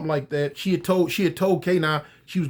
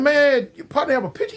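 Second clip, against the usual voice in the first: laughing disbelief; 8 semitones higher than usual. Acted. Police mocking prisoner's request.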